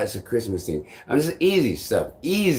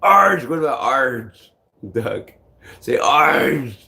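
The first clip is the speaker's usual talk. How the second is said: mock duck shouting; 3 semitones higher, 5 dB louder, slower than usual. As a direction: bark it out like a cheeky duck. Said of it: "Some duck is saying".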